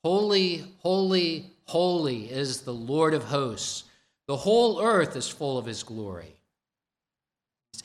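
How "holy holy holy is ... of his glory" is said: loud, ringing proclamation; angels crying out. Retold or imitated. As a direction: call it out like angels worshipping. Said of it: "They cried out to one another and said".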